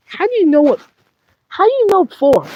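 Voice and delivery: high, loud demand; indignant shout. Acted. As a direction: yell it at the other puppet. Puppet demands angrily in quarrel.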